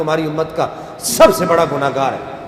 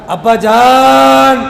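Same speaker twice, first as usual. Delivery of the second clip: ابا جان drawn out very slowly, higher and louder; lisping child; 8 semitones higher, 8 dB louder, much slower than usual. A narrator's reading. The child asks his father in a lisping voice. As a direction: call out slowly like a small child. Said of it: "اپنی توتلی زبان میں پوچھا".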